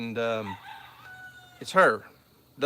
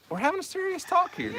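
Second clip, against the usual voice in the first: mock stern. Mock serious scolding of kids.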